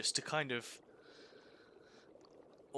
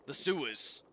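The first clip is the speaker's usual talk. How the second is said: loud, high call to a stranger; shouting across the street to a stranger; 4 semitones higher, 10 dB louder than usual. Acted. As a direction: hail a passerby, projecting loudly. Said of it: "just point at someone and go".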